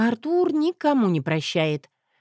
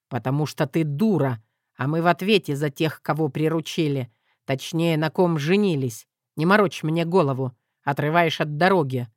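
lower, dry brush-off; gruff husband; 3 semitones lower than usual. Acted. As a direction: dismiss her curtly.

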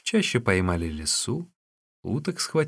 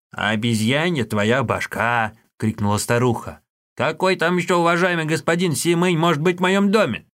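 put-on old woman shouting; 5 semitones higher, 3 dB louder than usual.

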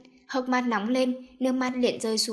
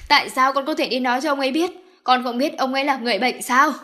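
louder, fast scolding; 2 semitones higher, 6 dB louder than usual. Acted. Mother scolding Daisy for upsetting her father. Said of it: "Bà Uông mắng cô".

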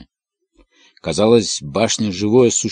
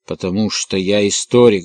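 ordinary delivery

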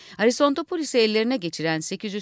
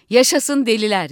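loud cheer at the end; 3 semitones higher, 7 dB louder than usual. Acted. Announcer cheering the madmen on air. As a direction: hail the madmen at full voice.

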